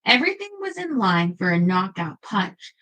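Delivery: steady reading-aloud voice; story narration. Acted. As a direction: read the history chapter aloud. Reads book aloud to viewers.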